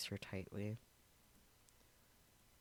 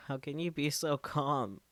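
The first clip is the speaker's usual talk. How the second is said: angry; 6 semitones higher, 7 dB louder than usual. Acted. Daru confronts Okabe angrily.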